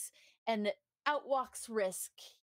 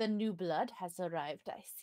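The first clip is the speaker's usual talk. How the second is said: fake, very poor, overdone French accent; 3 semitones lower than usual. Voicing a character greeting the new arrival, very poor French accent. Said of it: "a very poor French accent".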